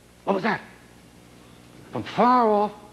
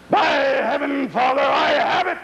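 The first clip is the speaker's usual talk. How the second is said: excited cry; 9 semitones higher than usual. Acted. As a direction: blurt out the sudden idea with excitement. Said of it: "cried Henry".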